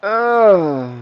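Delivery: high, drawn-out "uh" trailing down; excited cry. Real, not acted. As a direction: let out a high cry at the play. Reacting to a big play.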